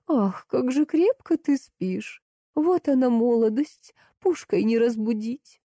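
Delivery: put-on high, drawn-out old-lady voice; Жозя. A narrator's reading. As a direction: sigh and fuss in a slow, high voice. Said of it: "повторила Жози".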